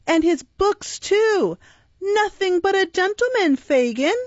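mocking urchin. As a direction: crow over the fine clothes. Charlie mocks Oliver's clothes.

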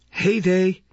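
high, affronted exclamation; indignant interjection. A narrator's reading. Matron interrupting the child's request, indignant. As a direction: cut in with mock-astonished indignation.

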